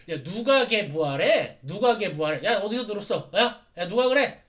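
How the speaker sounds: loud, pushy questioning; angry demand. Acted. Satan Gundam demanding who spread the rumor, loud angry. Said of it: "화를 내면서".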